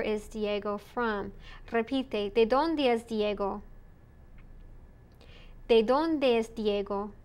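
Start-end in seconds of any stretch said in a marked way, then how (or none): 2.3-3.6 "¿de dónde es Diego?" with the pitch falling away after dónde; falling question intonation. Shown as a demonstration. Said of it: "the intonation goes down". 5.7-7.1 "¿De dónde es Diego?" peaking on dónde, then going down; falling question intonation. Shown as a demonstration. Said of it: "the intonation goes down".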